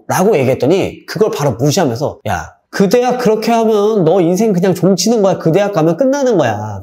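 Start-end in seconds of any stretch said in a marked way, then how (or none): 2.3-6.8 1 scolding. Retold or imitated. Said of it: "아이에게 다그치는 거죠".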